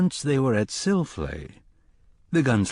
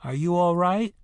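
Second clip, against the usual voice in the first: put-on concerned boy calling; 7 semitones higher than usual. Boy calls after Roland.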